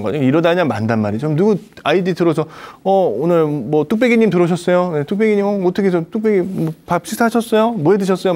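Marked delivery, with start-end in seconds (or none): 2.8-8.3 higher, bright chatty welcome to viewers; friendly greeting. Shown as a demonstration. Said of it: "이렇게 그냥 말씀을 나누시라는 거죠".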